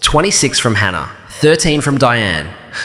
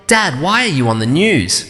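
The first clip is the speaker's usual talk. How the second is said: stammering; 4 semitones higher than usual. A narrator's reading. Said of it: "she stammered".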